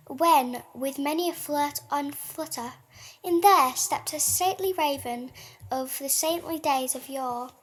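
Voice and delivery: measured, dramatic reading of a gothic poem; poem recital. Acted. Co-host reads The Raven aloud to listeners, dramatic recital. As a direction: read it like a ghost story by candlelight.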